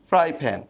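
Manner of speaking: ফ্রাই starts on F, প্যান on a lip-popped P; careful ফ্রাই প্যান with two distinct first sounds; F then P. Shown as a demonstration. Teacher checking students understood, F and P demo. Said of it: "ফ্রাই, এফ। পরেরটা ফি".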